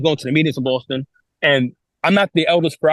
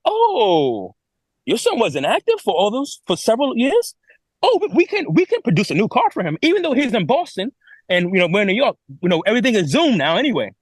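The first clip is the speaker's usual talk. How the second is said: imitating the elder, sliding higher and sugary; mock elder voice; 4 semitones higher than usual. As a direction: play the elder as falsely accommodating. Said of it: "And this elder goes".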